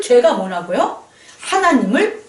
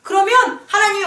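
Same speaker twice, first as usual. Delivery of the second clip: tempter's command; 8 semitones higher than usual. Retold or imitated. Satan tempting Jesus to jump.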